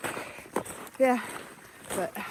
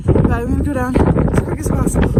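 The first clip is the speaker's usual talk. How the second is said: loud, raised voice against strong wind; shouting over wind; 5 semitones higher, 8 dB louder than usual. Real, not acted. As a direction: yell over the gusts. Windy summit, no visibility.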